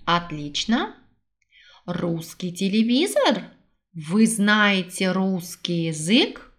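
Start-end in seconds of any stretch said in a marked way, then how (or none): none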